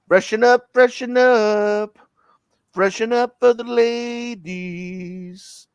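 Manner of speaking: a touch of the nightclub toilet attendant; imitating toilet attendant. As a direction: mimic the aftershave man calling out. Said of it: "And he says this".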